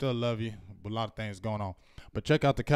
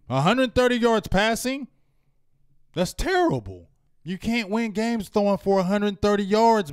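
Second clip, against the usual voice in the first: higher-pitched, punchy fan frustration; exasperated rant; 6 semitones higher, 3 dB louder than usual. Real, not acted. Fan fed up with his team's passing numbers, exasperated.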